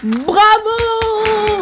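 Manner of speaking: excited cheer. Real, not acted. Sudden loud cheer.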